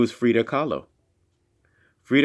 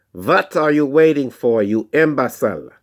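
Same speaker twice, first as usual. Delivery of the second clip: put-on German accent; 4 semitones higher, 4 dB louder than usual. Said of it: "in his thick German accent".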